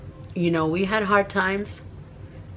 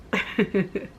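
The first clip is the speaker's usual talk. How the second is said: soft, broken sob; real sob in quick breaths; choked sob; 5 dB quieter than usual. Real, not acted. Woman overcome by the Bible verse, choked sob.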